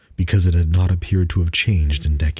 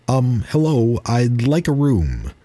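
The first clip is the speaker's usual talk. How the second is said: higher, hesitant traveler voice; a polite stranger asking for a room; nervous traveler; 6 semitones higher than usual. Acted. Man voiced in the story.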